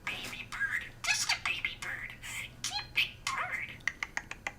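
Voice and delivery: tiny squeaky budgie voice; chirpy little bird mimicking speech; parakeet chatter. Real, not acted.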